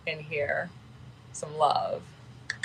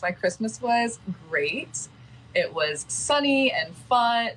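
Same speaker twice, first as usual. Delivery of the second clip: fake cheerful; 4 semitones higher, slower than usual. Fake cheerful answer, then "not sunny.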